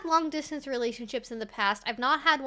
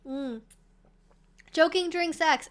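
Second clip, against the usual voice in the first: normal talking voice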